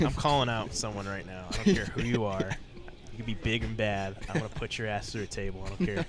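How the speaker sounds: loud trash-talk callout; wrestling promo. Pretend. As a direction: cut a fired-up wrestling promo. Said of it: "I'm cutting my promo".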